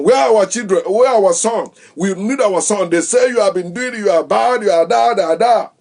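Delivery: angry parents. Retold or imitated. Parents loudly accuse the wife over missing son, mock anger. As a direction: demand your son back, loud and high.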